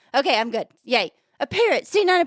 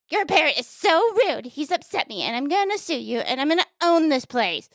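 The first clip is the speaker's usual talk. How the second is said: lightly voiced complaining lady, starting high; indignant lady; 4 semitones higher than usual. Lady complaining to the pet store owner, mildly indignant. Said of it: "she says to the pet store owner".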